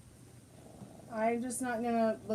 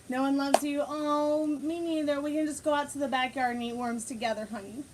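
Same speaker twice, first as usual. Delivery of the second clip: louder teasing line, then a sweet consoling coo; playful pet voice, raised; mock taunt to the dog; 5 semitones higher, 4 dB louder than usual. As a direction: tease the dog, then comfort her. Voicing mock taunt then baby talk to dog.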